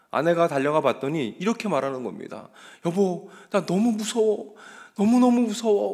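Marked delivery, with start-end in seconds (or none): 2.8-5.9 acted-out high, terrified, frightened shout. Retelling a dying patient crying out to his wife: imitating a frightened shout. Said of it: "라고 소리를 막 치는 거예요".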